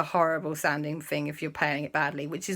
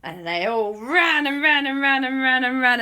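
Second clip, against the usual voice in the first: high, driving breathless repetition; frantic narration; 6 semitones higher, 4 dB louder than usual. A narrator's reading. Storyteller narrating everyone fleeing, frantic excitement. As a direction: pound out each repeat excitedly.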